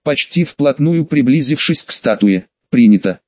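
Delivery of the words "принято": deep, louder stone guardian; gargoyle voice. Acted. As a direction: rumble it like a living statue. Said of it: "ответила горгулья".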